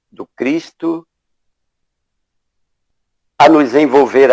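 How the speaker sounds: measured prayer in short phrases with long pauses; unhurried invocation, phrase by phrase; spoken prayer. Real, not acted. Moderator praying to open the spiritual evening, measured invocation.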